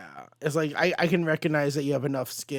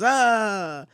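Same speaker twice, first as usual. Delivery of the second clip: short yelp of pain, higher and a bit louder; mock pained yell; 8 semitones higher, 4 dB louder than usual. Goblin struck by thrown cards, a mock pained yelp. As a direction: cry out as if the cards just hit. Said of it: "And the Green Goblin yells".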